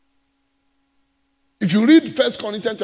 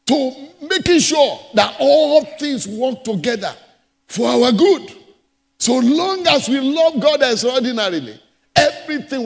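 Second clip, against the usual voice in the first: preaching shout; 3 semitones higher than usual. Acted. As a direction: lift it into a fervent shout. Preacher rising to a climax.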